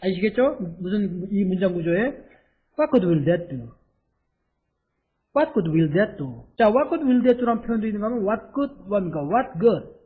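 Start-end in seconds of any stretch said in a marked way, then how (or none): 5.3-6.4 much slower, each word separate; slow careful repeat. Shown as a demonstration. Teacher repeating the sentence slowly for students. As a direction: drill it slowly so they can follow. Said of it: "repeated slowly".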